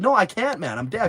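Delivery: high, loud fake-deaf protest; pretending to be deaf. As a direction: retell trolling someone by playing deaf. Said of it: "Just pretend like I couldn't hear".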